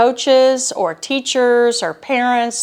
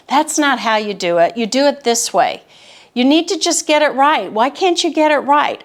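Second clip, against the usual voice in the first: put-on impatient, exasperated parent correcting a child; frustrated adult; 4 semitones higher than usual. Adult correcting a child's homework, frustrated and impatient. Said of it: "their inflection in their voice is very frustrated".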